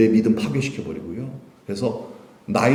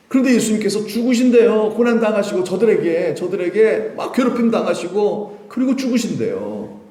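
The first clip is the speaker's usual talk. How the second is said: distressed complaint; 7 semitones higher than usual. Acted. Acted disciple's distressed complaint.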